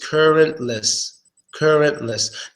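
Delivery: currentless said slowly, ending in a reduced -luss; pronunciation demo. Shown as a demonstration. Teacher shows learners how to say currentless, slow demo. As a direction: model "currentless" slowly and evenly. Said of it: "Just like that".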